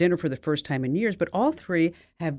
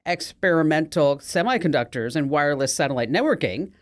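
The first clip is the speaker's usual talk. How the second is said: smug. Acted. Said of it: "smiles smugly and says".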